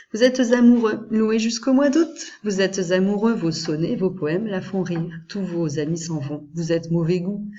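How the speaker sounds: recited verse, opening loud and lifted then settling; poem reading. Acted. Teacher reads the stanza about being in love, lightly declaimed. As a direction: declaim the first words, then ease off.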